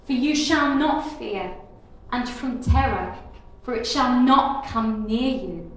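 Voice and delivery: measured, declarative Bible reading; solemn recitation with deliberate pauses; scripture reading. Acted. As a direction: proclaim the verse phrase by phrase. Reads scripture aloud.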